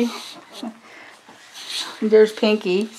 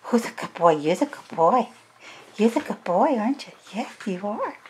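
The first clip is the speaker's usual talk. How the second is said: squeaky praising a dog; 2 semitones higher, 4 dB quieter than usual. Real, not acted.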